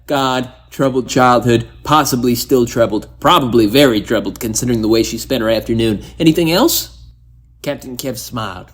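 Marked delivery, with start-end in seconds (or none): 0.1-7.0 loud fast sarcastic list. Acted. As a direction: rattle it off mockingly. Sarcastic rapid summary.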